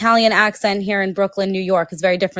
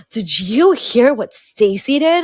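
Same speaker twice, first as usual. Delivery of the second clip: gossipy hush; 3 semitones higher, 3 dB louder, slower than usual. Retold or imitated. Gossiping to husband in store.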